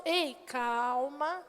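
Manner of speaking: slow, soft reassuring; calm someone nervous; slow gentle calm down. Shown as a demonstration. Calming a nervous person.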